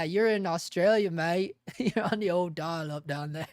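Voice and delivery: rough mock Australian accent; attempted Australian accent. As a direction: have a clumsy go at an Aussie accent. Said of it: "attempt at an Austra".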